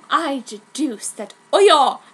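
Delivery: mock seductive. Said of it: "he said".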